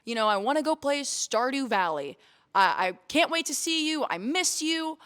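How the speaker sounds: high, eager phone greeting; bubbly with anticipation; cheerful call. Retold or imitated. Calling boyfriend after the gym, high and eager. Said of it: "and I was like".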